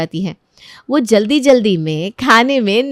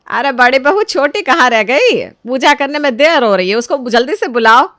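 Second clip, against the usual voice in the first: calling mother-in-law; 4 semitones higher, 4 dB louder than usual. Acted. Mother-in-law calls for younger bride.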